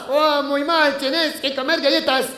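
a different voice in mock Spanish; Spanish accent. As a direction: answer in cartoonish Spanish. Pepito answers in Spanish. (accent espagnol caricatural)

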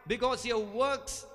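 builds slow, then bursts out loud and high; slow build to a loud high call; preaching shout. Real, not acted. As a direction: rise into a full-throated cry.

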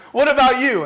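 a lightly voiced girl asking back; mock-innocent girl voice; playful girl voice. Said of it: "she's like".

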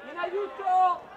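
un grido più forte. Real, not acted. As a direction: raise it, make them hear. Coach repeats call, louder.

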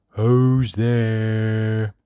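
long drawn-out, sad little squeak; sad squeaky voice. A narrator's reading. A voice behind the door answers a knock, sad and squeaky. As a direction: stretch it out miserably in a squeaky voice. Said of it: "sad, squeaky sort of voice".

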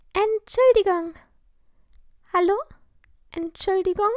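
high, loud calls to wake someone; calling out. A narrator's reading. Lilly calls to wake sleeping girl.

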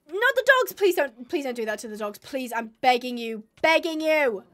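frantic begging, rising to a loud cry; desperate pleading. Real, not acted. Player pleading with the game to spare her dogs, frantic. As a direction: beg the monster to spare them.

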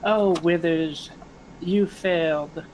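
lightly voiced scratchy crone, barely changed; a hint of an old hag gloating in the dark; scratchy raspy voice. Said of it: "in a scratchy, raspy voice".

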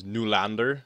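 Nylander with a Swedish noo at the start, noo-LAN-der; Swedish pronunciation. Shown as a demonstration. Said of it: "the actual Swedish pronunciation is".

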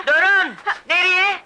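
high-pitched, indignant challenge; angry confrontation. Acted. Woman blocking the runaways, demanding they pay, angrily. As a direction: stop them short with a high, angry demand. Woman stops the fleeing pair.

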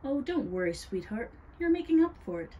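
high, effusive forgiveness; sweet reassurance. A narrator's reading. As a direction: coo it like a doting hostess. Witch soothes the apologetic boy.

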